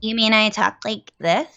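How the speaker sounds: lightly put-on comedian impression; Sarah Silverman. Co-host jokingly answering a viewer's comparison, light Silverman impression. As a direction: tease with a touch of mimicry. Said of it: "never heard your Sarah Silverman impression".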